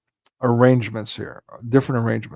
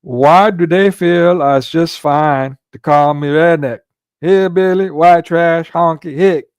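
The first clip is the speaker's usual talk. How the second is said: slow, loud, raised redneck drawl; bad redneck accent; 4 semitones higher, 5 dB louder, slower than usual. Meme character complaining of being called names, bad redneck accent. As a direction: draw out an aggrieved hammed-up redneck complaint. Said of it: "that's a really bad redneck accent".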